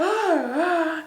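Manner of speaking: mock shocked gasp. Imitating the accused girl looking at the group, shocked gasp. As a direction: gasp as if affronted.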